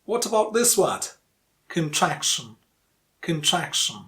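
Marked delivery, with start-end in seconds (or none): 1.7-4.0 "Contraction" stressed on the middle syllable; stress on TRAC. Shown as a demonstration. Teacher models "Contraction" twice, stress on TRAC. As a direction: reduce CON and lean on TRAC in "Contraction". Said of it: "The stressed syllable, track".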